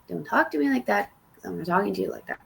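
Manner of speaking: firm but held-in objection; restrained rebuke. Retold or imitated. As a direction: push back without raising your voice. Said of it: "again said, I'm like".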